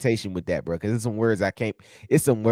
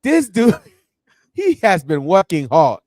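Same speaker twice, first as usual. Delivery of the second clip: slow, lightly put-on Nigerian accent; admiring a hardworking dad in Nigerian accent; 4 semitones higher, 4 dB louder than usual. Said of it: "I was like".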